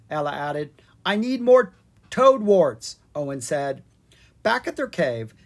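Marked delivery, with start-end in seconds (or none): 1.0-3.0 excited. Acted. Owen asks for ingredients.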